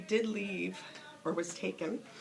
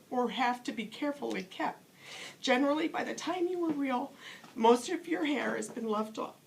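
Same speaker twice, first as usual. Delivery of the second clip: put-on higher, patient storyteller's old horse; lightly voiced wise old horse; 4 semitones higher than usual. Skin Horse reassuring the rabbit, lightly voiced and tender.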